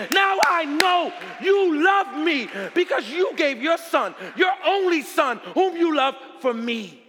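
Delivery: high, loud, exultant preacher's cry; shouted climax of joyful assurance; impassioned preaching. Real, not acted. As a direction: proclaim it at full force, driving on without letup. Preacher's climax, crying out to God.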